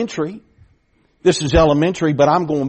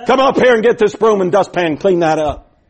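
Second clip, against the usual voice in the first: stern order; 5 semitones higher, 6 dB louder than usual. Retold or imitated. Neighbor lady orders the boy.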